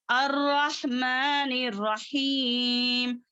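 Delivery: slow, level-toned verse with elongated vowels; Quran recitation. Shown as a demonstration. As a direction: recite measuredly, holding the long syllables.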